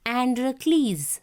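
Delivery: Androcles said carefully as a clear model; careful pronunciation. Shown as a demonstration. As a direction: show how to pronounce Androcles, clearly. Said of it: "you have to pronounce".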